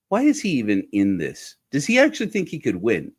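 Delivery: recalled disbelief, pitch climbing; baffled, asking how this is possible; incredulous. Retold or imitated. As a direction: replay your own disbelieving reaction. Recalling own incredulous reaction to Trump.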